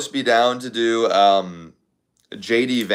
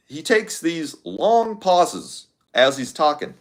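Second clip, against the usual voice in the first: slow, higher, pausing Obama cadence; Obama impression; 6 semitones higher, slower than usual. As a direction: describe him while half in his voice. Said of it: "Obama has a great voice".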